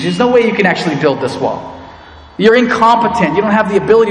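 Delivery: jeering enemy; mocking. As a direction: sneer it at them lightly. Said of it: "He starts mocking them".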